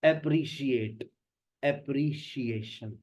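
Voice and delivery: slow अप्रिशिएट with sh, अप्रिसिएशन with s; contrasting s sounds. Shown as a demonstration. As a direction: lay out the two words slowly. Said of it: "बहुत common word था".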